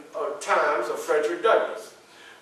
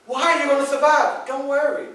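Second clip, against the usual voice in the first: high, loud pleading, rising to a final push; calm her fears but hurry her along; urgent reassurance; 8 semitones higher, 3 dB louder than usual. Retold or imitated. Frederick urging his wife Anna to let him go: high pleading. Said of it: "But I'm like".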